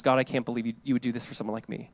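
low, soft private prayer; humble amazement. Retold or imitated. Preacher voicing someone who sits down before God, quietly amazed. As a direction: sink into a quiet, humbled confession.

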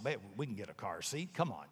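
quiet coaxing to a partner; soft spouse coaxing. Retold or imitated. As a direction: gently nudge your spouse to help.

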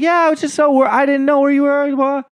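high, gushing mock girlfriend voice; imitating a breathless girlfriend, pitched far up; gushing girlfriend imitation. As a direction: gush it way up high like an overdone sweetheart. Imitating the girl to coach.

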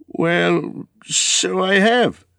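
high, drawn-out exclamation; surprised cry. Acted. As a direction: cry out as it dawns on you. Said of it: "cried Bilbo".

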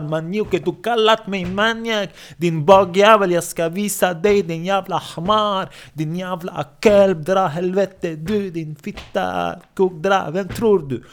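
high, drawn-out insults, slow and strained; acted screaming rage. Abbasen stamps on his victim, screaming insults. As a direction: rage at the man under your feet. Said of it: "när han skriker".

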